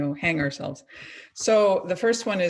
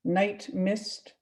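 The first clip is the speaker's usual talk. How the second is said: slow, measured poem recital with long pauses; poetry reading. Acted. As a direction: read it phrase by phrase, letting each line settle. Reads second poem aloud.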